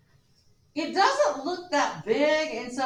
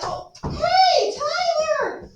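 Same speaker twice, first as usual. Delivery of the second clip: much higher, louder eager gossip opener; hallway gossip; 10 semitones higher, 5 dB louder than usual. Retold or imitated. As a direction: lean in to share juicy news. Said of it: "And then it's like".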